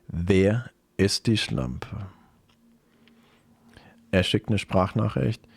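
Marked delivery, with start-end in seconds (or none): 0.1-2.1 slow demand. Acted. Betrayed girlfriend demands a name.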